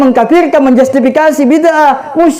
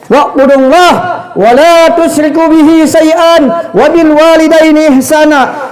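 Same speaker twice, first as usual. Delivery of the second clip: recitation; slower than usual. Acted. Reciting Quranic verse.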